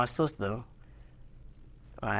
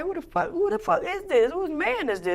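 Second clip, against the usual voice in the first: retold outraged yell; 3 dB louder than usual. Confronting stranger in the trap.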